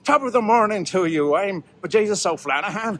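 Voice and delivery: lightly put-on Irish accent as the leprechaun host; a self-confessed terrible Irish accent, played for fun. Host greets viewers on Saint Patrick's Day, in a light Irish accent. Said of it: "And I'm gonna do this accent".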